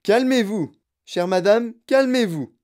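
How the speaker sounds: plus aigu et fort; crié. Acted. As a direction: apaiser en criant. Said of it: "cria monsieur Wonka". (Wonka calme la mère en criant)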